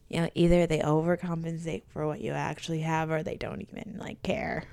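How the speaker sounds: whispered aside. Real, not acted. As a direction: say it under your breath. Whispered aside about doctors.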